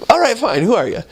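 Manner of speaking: hammed-up irritated demand; exasperated woman, stronger. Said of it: "but it's like".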